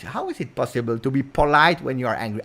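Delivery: ordinary talk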